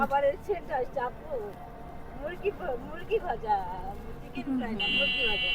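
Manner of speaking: high excited chatter. Real, not acted. Excited about fried chicken smell.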